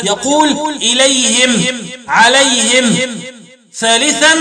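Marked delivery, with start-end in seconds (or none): 0.8-3.1 "إليهم، عليهم" ending in -him; kasr ha, silent-vowel mim. Shown as a demonstration. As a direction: close both words on a still m after "hi". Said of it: "وقرأ بإسكان الميم وكسر الهاء وقفا".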